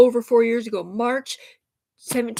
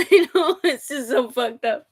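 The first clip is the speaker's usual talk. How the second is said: tearful; 3 semitones higher than usual. Real, not acted. Upset venting about being disbelieved.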